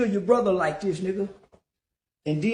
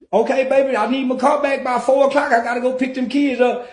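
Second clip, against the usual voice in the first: mama's voice; 4 semitones higher, 4 dB louder than usual. Retold or imitated. Voicing mama answering.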